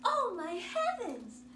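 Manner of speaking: loud, alarmed mother's gasp of words; shocked cry. Acted. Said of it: "she cried".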